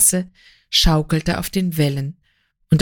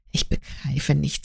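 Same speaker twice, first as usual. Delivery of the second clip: soft and low, barely voiced; quietly puzzled, dropping his voice; said softly; 4 semitones lower, 6 dB quieter than usual. A narrator's reading. Gurow answering his weeping lover, softly. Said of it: "sagte er leise".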